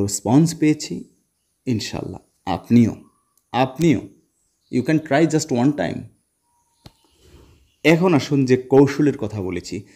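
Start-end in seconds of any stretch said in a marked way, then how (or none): 4.7-6.0 spoken very slowly, word by word; slow, drawn out. Shown as a demonstration. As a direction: coax the viewer gently into trying. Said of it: "slow English encouragement". (খুব ধীরে টেনে বলা)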